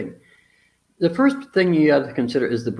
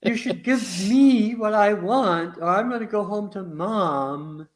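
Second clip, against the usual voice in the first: mock indignant pout; 5 semitones higher, slower than usual. Mocking an indignant wife.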